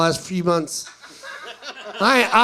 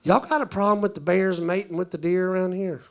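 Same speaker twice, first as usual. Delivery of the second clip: deadpan imitated tourist; straight-faced mock local; dead serious; 3 dB quieter than usual. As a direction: ask it in complete earnest. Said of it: "come up dead serious".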